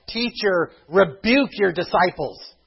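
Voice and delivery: high, loud, slowed outraged plea; indignant demand. Acted. Pharisees demanding Jesus stop crowd.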